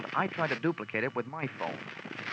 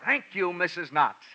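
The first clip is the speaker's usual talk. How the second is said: fake radio DJ; 3 semitones higher than usual. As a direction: sell it like a pushy radio host on the phone. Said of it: "Happy Jack the Money Man".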